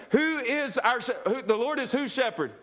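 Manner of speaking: rally the congregation with joy. Shown as a demonstration. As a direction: lift the crowd, laughing and eager. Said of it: "can we be a little more confident and joyful now".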